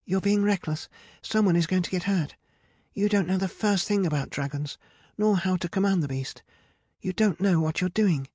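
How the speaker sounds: high-pitched sisterly telling-off; scolding. A narrator's reading. Rapunzel berates Medea about commanding dragons, scolding. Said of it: "scolded her sister".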